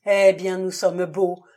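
a loud, despairing groan; loud moaning despair; loud groaning lament. A narrator's reading. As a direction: wail it out as he sinks into the chair. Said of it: "gémit Prenant".

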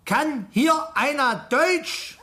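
slow, over-clear question to foreigners; speaking slowly. Acted. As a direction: spell it out as if they can't understand.

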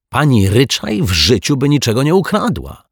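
high, emphatic protest; indignant defence. A narrator's reading. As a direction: leap to her defence, high pitched. Detective indignantly defends accused teacher. (oburzony protest)

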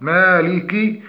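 مالك with light a and short, full final i; correct kasra. Shown as a demonstration. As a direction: finish مالك on a clear short i. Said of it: "تحقيق". (مالك بتحقيق كسر الكاف)

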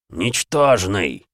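медленный громоподобный голос божества; растянуть слово, как древний бог; cosmic entity. Acted. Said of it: "громоподобный голос Верховного". (громоподобный голос)

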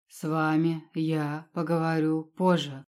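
slow, each syllable hammered separately; every letter clipped out. Acted. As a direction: spell out the threat word by word. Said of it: "чеканя каждую букву". (чеканя каждую букву)

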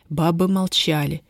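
ordinary delivery

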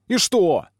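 honestly puzzled; surprised. A narrator's reading. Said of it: "удивляется Волчонок". (удивлённо)

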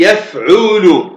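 يفعول slowly sounded out as yaf-'u-lu; pattern demonstration. Shown as a demonstration. Teacher showing students the word's pattern, يفعول drawn out by syllable. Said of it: "وزن يقول يفعول".

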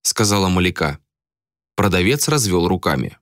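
ordinary delivery

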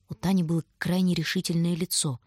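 ordinary delivery

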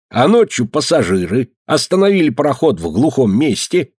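put-on chatty old villager voice; lively old man. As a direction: tell it like a gossipy old man. Old man tells rumour.

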